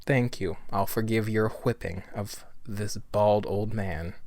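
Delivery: a hint of a stern old man easing into forgiveness; lightly voiced old judge.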